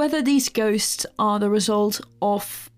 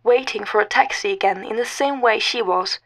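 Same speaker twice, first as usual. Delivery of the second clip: story narration; 2 semitones higher than usual. A narrator's reading. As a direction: read it like a told ghost story.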